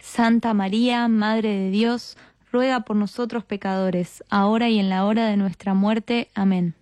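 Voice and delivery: measured, level-toned prayer response; rosary response. Real, not acted. Answering the leader's Hail Mary, recited prayer. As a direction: answer in a steady recited cadence, settling on Amen.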